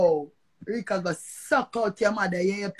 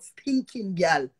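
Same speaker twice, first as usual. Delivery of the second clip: slow insult; 3 semitones lower, much slower than usual. Real, not acted. Insult in rant.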